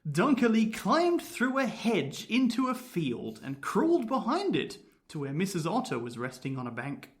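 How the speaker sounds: measured, lilting storytelling read; story narration. A narrator's reading. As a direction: tell a spooky tale with relish. Reads the ghost story.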